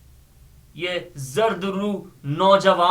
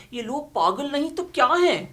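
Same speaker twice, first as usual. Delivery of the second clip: higher, fast mocking quote of the boss; mocking the master; 7 semitones higher, faster than usual. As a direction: mimic the master's scornful question. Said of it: "ہمارے سرکار کہہ رہے تھے". (سرکار کی نقل میں طنزیہ، اونچا اور تیز لہجہ)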